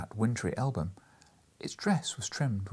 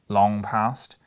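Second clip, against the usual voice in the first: louder whispered question; inquiring; 8 dB louder than usual. Acted. Scrooge to the small ghost, loud inquiring. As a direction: ask it sharply. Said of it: "inquired Scrooge".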